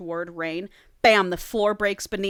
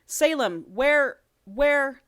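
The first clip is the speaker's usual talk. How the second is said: high, louder call with an uncanny edge; a monster faking a friend's voice; eerie imitation; 6 semitones higher, 4 dB louder, much slower than usual. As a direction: creature mimicking a friend, calling her name. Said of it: "It was a near-perfect imitation".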